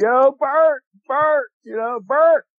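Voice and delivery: very high, drawn-out holler. Retelling calling out to a buddy in the quiet woods: imitating a holler. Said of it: "I started hollering".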